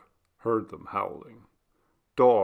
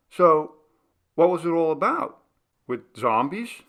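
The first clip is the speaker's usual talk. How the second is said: louder, higher, quick questioning; eager question; 7 semitones higher, 5 dB louder than usual. A narrator's reading. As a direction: push him for the story. Eric questioning Batu.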